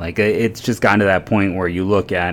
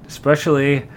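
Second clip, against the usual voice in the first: words pushed through clenched teeth, higher; talking through teeth; 7 semitones higher than usual. Real, not acted. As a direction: say it with your teeth shut. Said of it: "kinda talking through my teeth there".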